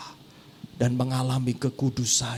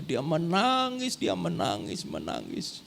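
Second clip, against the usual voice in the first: fading repetition; 6 dB quieter than usual. Acted. Preacher to congregation, menangis fading to a hush. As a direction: let each menangis fade away. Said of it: "fading repetition".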